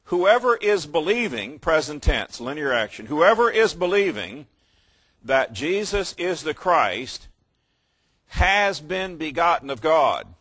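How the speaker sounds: preaching emphasis. Acted. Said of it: "preaching the key verse".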